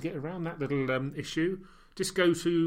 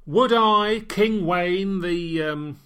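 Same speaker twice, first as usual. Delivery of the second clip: grandiose king; 3 semitones higher, 4 dB louder, much slower than usual. Pretend. Pompous self-crowning as king.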